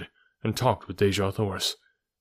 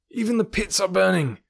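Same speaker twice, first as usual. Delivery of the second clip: shouted warning; 11 semitones higher than usual. A narrator's reading. A rescuer calls John Carter back from the burning pits, high shout. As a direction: yell to call him back from the fire. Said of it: "cried a voice".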